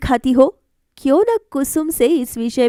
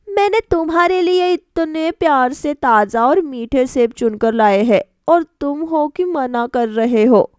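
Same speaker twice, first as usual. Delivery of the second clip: put-on hurt young wife; 3 semitones higher than usual. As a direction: sound let down by his refusal.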